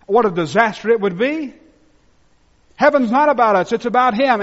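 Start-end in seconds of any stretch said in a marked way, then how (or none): 2.7-4.4 louder and higher, pressing each word; fervent sermon refrain; emphatic preaching. Real, not acted. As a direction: drive the point home.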